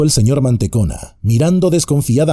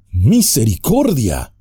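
frightened cry; 2 semitones higher than usual. Acted. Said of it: "gritó el señor Mantecona palideciendo".

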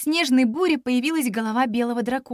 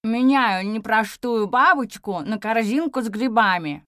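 through clenched teeth; 2 semitones lower than usual. A narrator's reading. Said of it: "не размыкая зубов".

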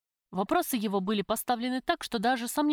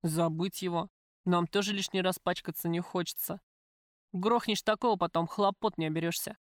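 lightly voiced tough man; gangster, coolly menacing. Gangster tells the prisoner he knows of her visitor, cool. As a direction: speak as a matter-of-fact criminal.

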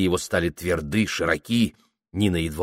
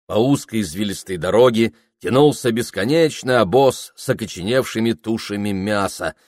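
plain reading voice

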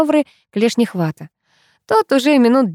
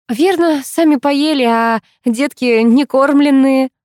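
rising worried voice, slowing down; 8 semitones higher, 4 dB louder, slower than usual. A narrator's reading. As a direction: fret over the unfed little ones. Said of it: "обеспокоилась я". (встревоженно, медленно)

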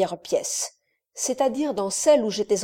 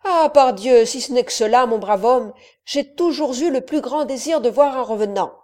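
eager bravado; 3 semitones higher, 5 dB louder than usual. Acted. Count eager to meet ghosts.

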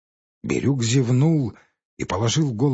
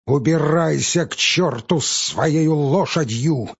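shouting; 4 semitones higher, 3 dB louder, slower than usual. Acted. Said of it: "закричал он ему вслед".

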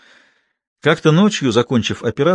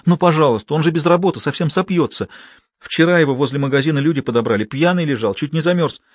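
higher-pitched, earnest begging; acted feminine plea, pitched up; pleading; 4 semitones higher than usual. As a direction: plead his case as a worried nurse. Nurse begging boss for her lover.

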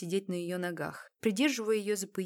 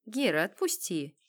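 peaceable. Acted. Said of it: "миролюбиво разрешил полковник".

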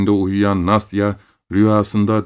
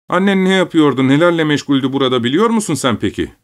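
high, raised, plaintive voice; pitiful cry; 8 semitones higher, 4 dB louder, faster than usual. A narrator's reading. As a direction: cry out as a wounded father. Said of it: "diye haykırdı baba acıklı bir sesle". (acıklı bir sesle haykırarak)

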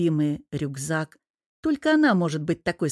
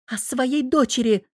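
«дочери» sharply stressed, higher; 6 semitones higher than usual. Acted. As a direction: punch «дочери» against «сыне». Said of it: "чётко выделила последнее слово". (ударение на «дочери»)

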